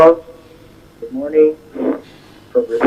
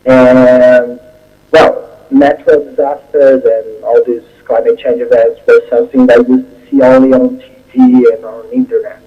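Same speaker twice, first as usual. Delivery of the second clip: normal talking voice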